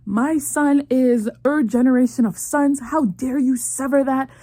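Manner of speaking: lightly voiced stern mother-in-law; mock berating. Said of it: "now the mom is berating her".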